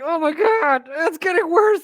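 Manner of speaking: high squeal of mock horror; high, giddy mock dismay; mock horrified squeal. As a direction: squeal it like a delighted fan. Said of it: "I'm like".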